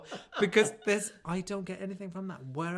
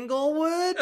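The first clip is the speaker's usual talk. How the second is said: laughing; 11 semitones higher, 9 dB louder than usual. Real, not acted. Laughing at Inglewood mention.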